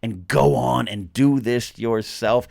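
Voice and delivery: acted rousing call to carry on; impassioned mentor. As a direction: urge them on, punching each phrase. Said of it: "Luke was saying".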